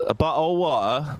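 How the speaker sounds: put-on British accent with swallowed t's; glottal-stopped British impression; mock British accent. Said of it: "That's a spot on accent I've got".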